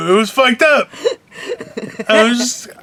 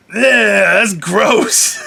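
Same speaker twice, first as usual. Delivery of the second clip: disgusted; much slower than usual. Retold or imitated. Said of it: "I was just like".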